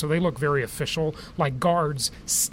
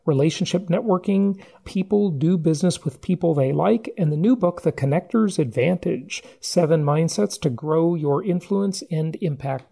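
louder polished host introduction; announcer intro; 4 dB louder than usual. Acted. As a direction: introduce the guest like a radio host. Formal guest introduction over music.

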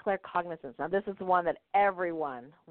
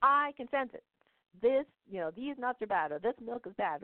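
higher, knowing mom voice; lightly higher mom, sure of herself; imitating mom; 6 semitones higher than usual. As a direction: play the mom who can sense it. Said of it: "And she goes".

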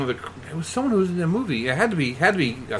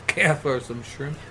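slow, softer jokey Aussie; mock Australian accent; 5 dB quieter, slower than usual. Co-host joins the Australian Skrull gag, mock Australian accent. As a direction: play along in a put-on Australian accent. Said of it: "this Skrull has a thick Australian accent".

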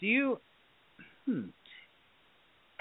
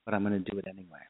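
calm firm reply; 5 semitones lower, 9 dB quieter, faster than usual. Retold or imitated. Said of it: "listen to that voice and say".

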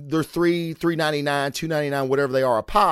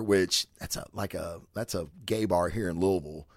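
hushed, half-whispered aside; 5 semitones lower, 8 dB quieter than usual. Real, not acted. Reviewer whispering about the local gay bar. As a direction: drop the voice to a near whisper. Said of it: "I don't know why I whispered that".

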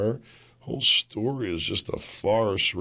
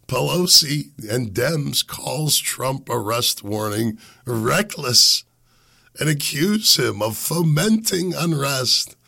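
put-on lightly accented old Italian lady, drawn out; 5 semitones higher, slower than usual. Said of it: "that was my old Italian lady accent".

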